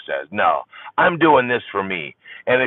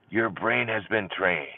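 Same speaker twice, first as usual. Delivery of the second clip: softer repeat; 6 dB quieter than usual. Shown as a demonstration. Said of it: "repeated softer".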